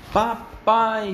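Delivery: usual speaking voice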